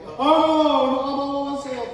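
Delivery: high, whiny mock self-pity. Elijah at his pity party, whining high. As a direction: whimper like a sulking man. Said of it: "he having his pity party".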